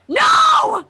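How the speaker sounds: sharp high shout; panicked shout of no; loud no. Real, not acted. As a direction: cut them off hard. Player shout.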